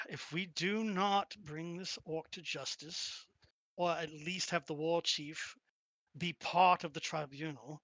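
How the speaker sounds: sighing, resigned commander, mildly acted; a touch of weary resignation as the commander. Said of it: "She just sighs and she's like".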